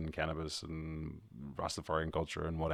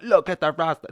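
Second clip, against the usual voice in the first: mocking passerby; 10 semitones higher, 9 dB louder than usual. Strangers calling out in street.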